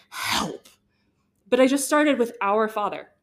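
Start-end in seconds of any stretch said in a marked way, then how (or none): 0.1-0.7 breathy whispered cry for help; whispered plea. Retold or imitated. Asking the Holy Spirit for help, whispered. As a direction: breathe the word like a small prayer.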